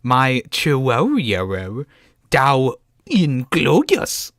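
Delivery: "My Chihuahua Dao Inglorious" very slowly, Welsh turned into English words; slow deliberate re-read as English words; mangled Welsh. Shown as a demonstration. Friend asks again, host reads slowly. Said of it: "Please say it again".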